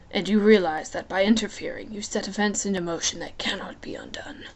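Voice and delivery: amused, lazy menace, half whispered; lightly voiced Hades.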